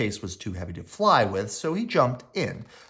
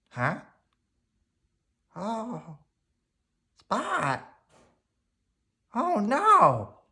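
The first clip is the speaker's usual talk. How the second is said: higher, anxious cry; worried child; 10 semitones higher, much slower than usual. Acted. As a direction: call out in worry. Henry finding Spot stranded.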